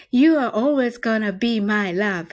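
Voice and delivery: at natural speed, one flowing line. Shown as a demonstration. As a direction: say it through at normal speed. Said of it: "では、早く言ってみましょう". (普段の速さで通して)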